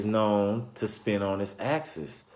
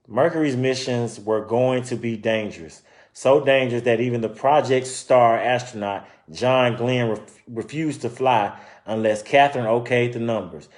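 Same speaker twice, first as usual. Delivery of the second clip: story narration; 4 dB louder than usual. Acted. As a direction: clear read-aloud storytelling voice. Reading picture book aloud.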